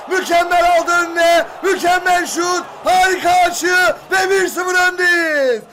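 thrilled shouted praise; excited shouting. Real, not acted. Fan celebrates the goal.

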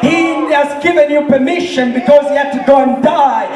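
forceful, driving sermon delivery; impassioned preaching. Real, not acted. Preacher urging the congregation to share the gospel, impassioned.

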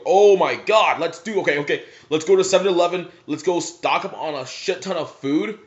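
loud, high and fast "oh my god"; hyped dad rushing to the store; dad's excitement. Retold or imitated. Dad planning movie night snacks, loud and thrilled. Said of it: "I go".

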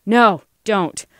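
urgent plea to stop; alarmed plea. Acted. Lena tries to halt the lobbyist, alarmed. Alarmed cry as quarrel turns violent.

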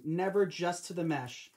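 slow, weighty never; firm tip with never leaned on; stress on never. Shown as a demonstration. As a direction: lean on NEVER like a warning. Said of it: "Remember, guys".

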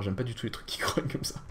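scared hushed whisper. Real, not acted. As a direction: whisper it, nervous. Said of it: "ça va me faire peur".

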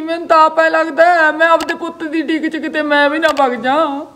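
fretting aloud, close to crying; tearful. Acted. Worried mother waiting for her jailed son, tearful. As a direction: voice giving way to tears. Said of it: "ਚੱਲ ਬੇਬੇ, ਰੋ ਨਾ".

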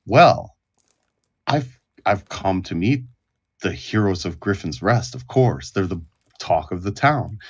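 lightly voiced gracious cleric paying respects; humble priest.

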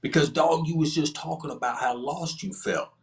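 drawn-out, high hollered call down the hall; imitating a cellmate yelling from his cell; hollering across the tier. Former cellie calling out to Hustler across the tier, hollered. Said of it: "So he hollered out".

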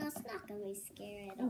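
soft fast whisper. Real, not acted. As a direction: whisper it reassuringly. Reassuring kid before exam.

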